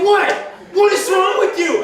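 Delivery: half-acted bewildered yell; retold yell. Dave yelling at laughing roommate.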